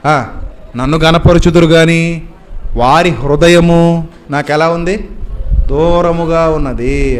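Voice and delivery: slow, weighty quoting of God's word; solemn scripture quote. Retold or imitated. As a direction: draw out each phrase like reading holy text. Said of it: "ఏమంటాడు తెలుసా".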